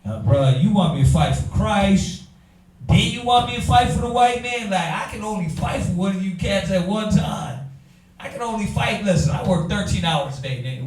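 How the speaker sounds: lightly voiced tired church member, grumbling; mock weary believer. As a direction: whine like someone asked to fight one cause too many. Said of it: "You're like".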